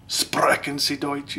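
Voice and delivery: put-on high, drawn-out German accent; mock German accent. Showing viewers his fake accents, in high, slow mock German. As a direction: stretch it out in a high-pitched German voice. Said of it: "kinda like the Nazi thing".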